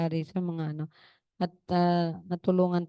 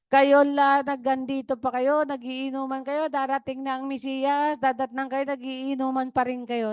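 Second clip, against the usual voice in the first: remembered grandmother scolding; 4 semitones higher than usual. Retold or imitated. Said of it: "narinig ko talaga siya".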